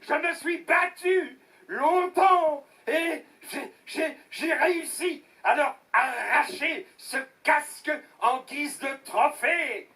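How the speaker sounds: wailing, stop-and-start account; dramatic lament. Acted. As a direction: play up the heroic struggle. Beaten villager tells his inflated tale.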